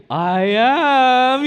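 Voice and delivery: high, very loud emphatic wife voice; imitating his wife. Husband mimics wife insisting she is happy. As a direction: belt it out like a thrilled wife. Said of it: "She's like".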